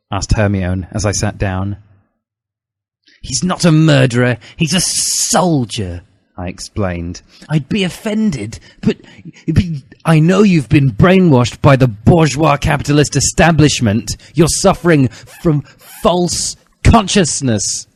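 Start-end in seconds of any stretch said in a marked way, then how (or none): 3.2-6.0 raised, slow indignant schoolboy voice; a lightly voiced righteous teen, drawn out; earnest young Harry. 7.5-17.9 put-on earnest young Harry. Harry lecturing Hermione.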